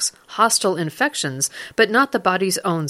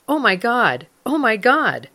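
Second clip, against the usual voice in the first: higher-pitched mock yell at normal volume; mild retold yell; 3 semitones higher than usual. Wife yelling from inside the car, lightly acted yell. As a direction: imitate a wife calling out in astonishment, held back. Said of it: "his wife inside their car yelling out".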